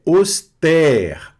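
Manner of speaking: "auster" in two beats, high and loud, with an open è. Shown as a demonstration. Teacher demonstrates the grave accent, "auster" with open è. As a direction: model "auster" with a wide open e at the end. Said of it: "vai ter um som aberto".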